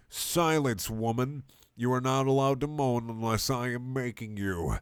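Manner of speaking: a hint of stern authority; lightly voiced bossy cat; commanding Garfield. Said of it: "said Garfield with authority".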